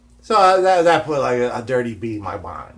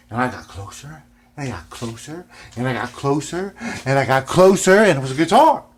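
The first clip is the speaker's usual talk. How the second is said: building suspense; 2 semitones higher, 5 dB louder than usual. Real, not acted. Suspense building toward discovery.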